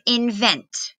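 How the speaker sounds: invent said slowly and carefully; slow demo word. Shown as a demonstration. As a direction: draw out invent for learners. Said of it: "the word".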